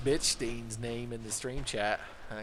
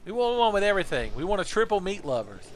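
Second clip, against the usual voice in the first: much higher, loud dude-bro demand; rowdy student; 8 semitones higher, 4 dB louder than usual. Acted. Student yelling his order at the teacher, loud. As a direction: shout it like an excited teen.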